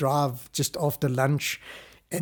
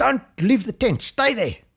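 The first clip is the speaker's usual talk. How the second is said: high, urgent, loud shout; 8 semitones higher, 3 dB louder than usual. Retelling shouting to the wife in the tent while running: imitating own shout. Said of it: "And I was shouting".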